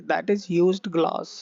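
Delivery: slow, word-by-word teaching read; slow teacher voice; slow dictation. Shown as a demonstration. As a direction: spell it out slowly for learners. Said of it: "used glass मतलब उपयोग किया हुआ है".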